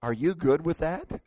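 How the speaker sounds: mildly tender question, lightly acted; lovingly. Husband asking wife to agree to his plan, lovingly. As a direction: check in with affected sweetness. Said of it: "very lovingly, I said".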